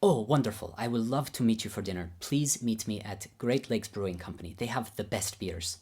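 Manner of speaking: teacher Babayan's accent, lightly imitated. Teacher happily accepting his pupils' dinner invitation, in imitated Babayan accent. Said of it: "I'll do my best Babayan accent".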